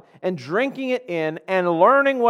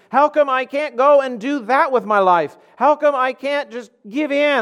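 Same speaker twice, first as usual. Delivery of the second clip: higher, whiny questioning of God; mock complaining believer; 5 semitones higher than usual. Preacher mimicking a complaining churchgoer, higher and whining. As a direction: play the sulking believer asking why not. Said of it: "That's the cry of our culture".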